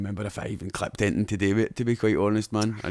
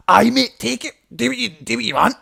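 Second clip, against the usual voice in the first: much higher, louder, eager yes; excited drunk mate; 12 semitones higher, 7 dB louder than usual. Retold or imitated. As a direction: blurt it out like a happy drunk friend. Drunk mate Kyle on the phone.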